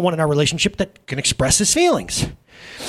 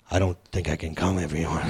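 mopey excuse; 14 semitones lower, 8 dB quieter than usual. Retold or imitated. Telling wife he can't go.

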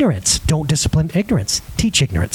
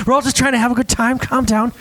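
quick, higher mock bouncer patter; 5 semitones higher than usual. Dad jokes about calming his kid, lightly voiced bouncer. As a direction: play a bouncer defusing trouble, a bit hurried. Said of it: "I talk to him like a bouncer".

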